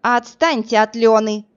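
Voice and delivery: firm, cold demand; unkind. Acted. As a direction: stress on «Отстаньте» spoken coldly. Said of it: "неласково произнесла блондинка".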